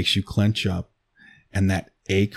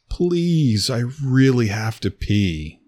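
high, louder imitated begging; mock pleading partner; 6 semitones higher, 5 dB louder, slower than usual. Mimicking her partner's begging to pee, mock plea. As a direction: ape his desperate pleading, half in jest. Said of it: "you're saying".

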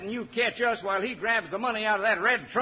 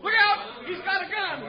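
sudden high alarmed cry; alarmed warning; 9 semitones higher, 4 dB louder than usual. Acted. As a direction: shout the warning in a panic. Warning cry about gun.

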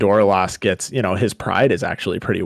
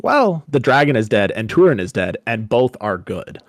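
gleeful announcement; 3 semitones higher than usual. Retold or imitated. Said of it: "the way he phrases it is like".

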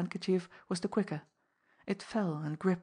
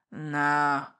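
loud, low snarled refusal; a hostile snarl at the intruder; 3 semitones lower, 6 dB louder than usual. Acted. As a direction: spit the word out with contempt. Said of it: "he said with a snarl".

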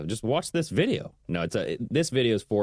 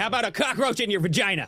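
high-pitched incredulous exclamation; mock-outraged outburst; 11 semitones higher, faster than usual. Real, not acted. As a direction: burst out with a comic, outraged comeback. Outraged comic comeback in banter.

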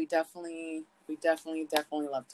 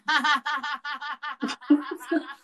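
put-on high, giggly baby laugh; imitating toddler laugh; 9 semitones higher, 7 dB louder than usual. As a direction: mimic a toddler cracking up. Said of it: "And she goes".

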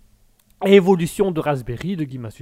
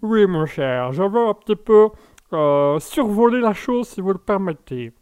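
new character; 2 semitones higher than usual. Acted. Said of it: "vous êtes un nouveau personnage".

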